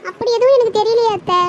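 loud, defensive protest; indignant protest. Acted. Daughter-in-law denies her mother-in-law's accusation, indignantly.

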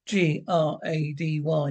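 "G R A D Y" spelled letter by letter, slowly; "G R A D Y" one letter at a time, slowly; spelling out the name. Acted. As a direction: spell "G R A D Y" out slow and pointed for the press. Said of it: "don't forget to spell the name correct".

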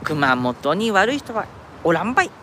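slow, lightly put-on Kyushu dialect; a playful mock Kyushu accent, drawn out; fake Kyushu dialect. Streamer jokingly reassures viewers in a fake Kyushu dialect. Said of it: "エセ九州弁が出ましたけどね".

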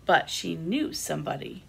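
animated picture-book reading with lifted character lines; expressive storytime delivery; reading to children. A narrator's reading. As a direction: read a story aloud to little listeners. Reads second picture book.

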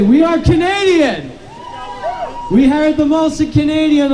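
impassioned preacher's speech to a crowd; rousing sermon-like address; rally preaching. Acted. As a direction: preach it to the rain-soaked crowd.

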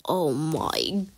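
slow, drawn-out exasperated groaning; exasperated wail. Real, not acted. Player fed up with the game, exasperated wail. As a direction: stretch every word out in exasperation.

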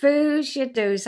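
slow Aberdeen Doric "Foos your doos", said twice; Doric phrase. Shown as a demonstration. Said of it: "I like that one".

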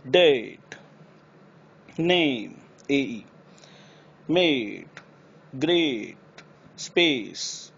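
नेम and ग्रेट with a full ei glide; ei glide words. Shown as a demonstration. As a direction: glide each vowel e to i. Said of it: "एई की आवाज़ आनी चाहिए". (एई वाले शब्द)

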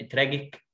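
تراجيك with a hard g; wrong version. Shown as a demonstration. Teacher shows the wrong hard g in تراجيك. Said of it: "ليه مش ترا".

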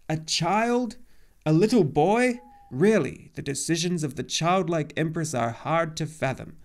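high, loud, aghast disbelief; shocked gasp. A narrator's reading. Old centaur learning the hero is a child, aghast. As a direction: exclaim it in rising astonishment, then exasperation. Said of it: "old Chiron gasped".

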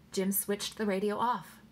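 ordinary delivery, nothing marked

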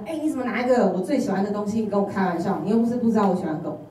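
half-hearted indignant protest; mock angry outburst. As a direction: complain hotly like a cheated teenager. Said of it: "我整个就暴怒".

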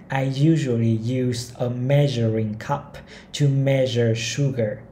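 each word of the sentence spaced out slowly; slow model reading. Shown as a demonstration. Teacher reading a model sentence to learners, very slowly. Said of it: "Câu thứ ba này".

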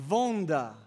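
"Wanda" said the German way, V for W; German-style "Wanda", as VUN-da; German pronunciation. Shown as a demonstration. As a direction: begin "Wanda" with a German V sound. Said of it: "A German word from which we derive".

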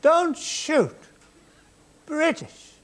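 high, loud call across the field; high frantic shout. Retold or imitated. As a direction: yell out to the soldiers on the hill. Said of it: "So I shouted".

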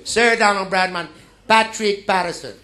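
booming formal introduction; grand announcement. Retold or imitated. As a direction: announce the name loud and high. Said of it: "and it gets to".

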